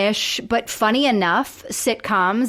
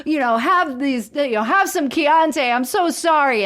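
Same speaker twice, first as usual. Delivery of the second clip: acted sympathy, pitched up; commiserating; 3 semitones higher than usual. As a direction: play a sympathetic stranger commiserating. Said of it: "he's commiserating".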